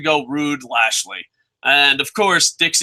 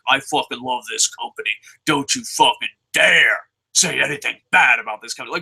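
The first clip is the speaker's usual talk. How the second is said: mock new fan; 4 semitones lower than usual. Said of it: "and be like".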